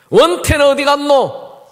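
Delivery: loud slow dialect call; stern father calling. Retold or imitated. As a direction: call out for the missing son. Father asks where son is.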